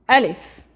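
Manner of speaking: Alif said clearly and loud; teacher sounding out Alif; letter name Alif. Shown as a demonstration. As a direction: model Alif for the class to repeat. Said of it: "Try to pronounce".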